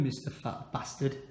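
unvoiced whisper. Real, not acted. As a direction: whisper so as not to wake them. Whispering at night.

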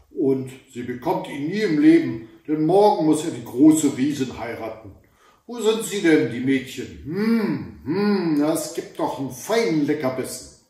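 loud, gloating troll cry; troll shouting. Acted. Troll demands to know where the girls are, loud and greedy. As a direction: bellow with greedy glee. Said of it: "schrie er".

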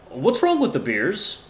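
lightly voiced questioning character; Dom. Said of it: "what voice should I do for Dom".

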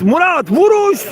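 slow stretched shout on a near miss; screaming football commentator. Real, not acted. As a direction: drag out the missed shot call.

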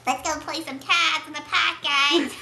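put-on New York accent. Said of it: "My New York accent".

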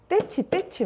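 sing-song high parent scolding the furniture; scolding the table. Retold or imitated. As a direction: pretend to punish the table for a crying child. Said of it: "막 이러잖아요".

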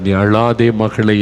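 slow, gentle நீ அழாதே மகளே; slow tender comfort. Retold or imitated. Jesus consoling a childless woman, slow and tender. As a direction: soothe her tears, unhurried. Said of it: "என்று ஆண்டவர் சொல்லுகிறார்".

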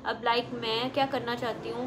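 speaking with sheet mask on face; talking while applying sheet mask. Real, not acted. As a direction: wet mask covering face, mouth free. Seen 0: Sheet held before face, then worn on face from 5.1s.

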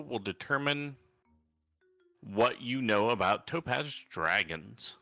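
ordinary talk, nothing marked

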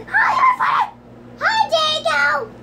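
high, laughing shouted greeting; big goofy YouTuber hello, way up high; Markiplier voice. Pretend. Kid greeting viewers in a Markiplier voice. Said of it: "that was my best Markiplier voice".

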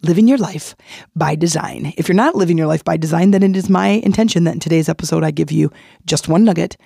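hoarse from laryngitis; raspy voice. Real, not acted. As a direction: talk through a raspy, worn-out voice. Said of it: "So sorry about my raspy voice".

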